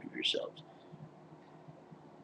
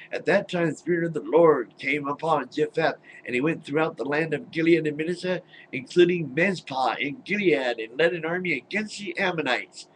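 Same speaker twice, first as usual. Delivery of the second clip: mock grand storyteller reading, higher; scripture reading; 4 semitones higher than usual. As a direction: read the Bible story with hammed-up drama. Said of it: "Listen to some of this stuff".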